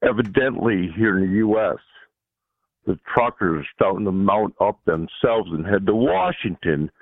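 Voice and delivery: raspy, rough-throated voice. Real, not acted. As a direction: speak through a rough throat. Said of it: "excuse my voice. I got a little rough throat".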